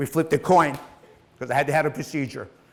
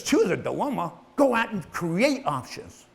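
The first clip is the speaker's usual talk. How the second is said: mentor's advice; 4 semitones higher than usual. Retold or imitated. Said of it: "He goes".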